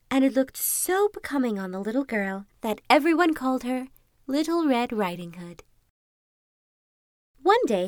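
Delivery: measured, lilting storybook reading; fairy-tale narration. A narrator's reading. Narrator telling Little Red Riding Hood, storybook narration. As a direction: read it like a bedtime story.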